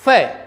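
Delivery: फै with an F sound; फै as F, not puffed P; correct pronunciation. Shown as a demonstration. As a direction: say फै with teeth-on-lip F. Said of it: "क्या बोलना है?".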